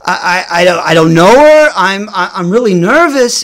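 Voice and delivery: mock flustered stutter with jumpy pitch; shy boy admitting a crush, stammering; nervous stammer. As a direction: trip over every word. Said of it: "fumbling my words".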